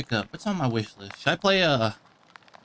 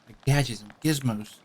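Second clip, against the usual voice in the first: put-on slightly higher, complaining child; lightly voiced whining kid; 7 semitones higher, 8 dB louder than usual. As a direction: play a kid mildly grumbling about a parent.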